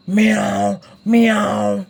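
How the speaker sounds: voiced meow for a big cat. Shown as a demonstration. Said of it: "Ang big na cat ni Spider-Man, what's the sound?".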